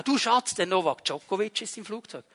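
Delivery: quietly tip off your wife, as retold; hushed aside to wife. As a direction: discreet murmur to a partner. Confiding celebrity sighting to his wife.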